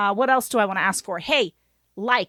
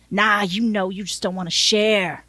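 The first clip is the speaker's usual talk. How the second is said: accusing driver with a Southern twang; Southern accent; 2 semitones lower than usual. Acted. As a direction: needle them in a light Southern accent. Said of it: "I gave him a Southern accent".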